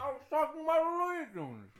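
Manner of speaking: high, loud comic outburst; real high-pitched indignant holler; protesting yell. Real, not acted. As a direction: yell it back in your own defence. Loud protest when teased about carrot.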